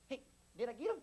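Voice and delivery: high, soft redneck voice; comically innocent little redneck asking softly; redneck soldier. Retold or imitated. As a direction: play a small-voiced country boy. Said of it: "little redneck that he was".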